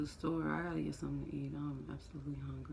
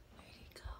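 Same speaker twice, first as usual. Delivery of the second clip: whisper; 8 semitones higher, 14 dB quieter, faster than usual. Real, not acted. Whispering to baby.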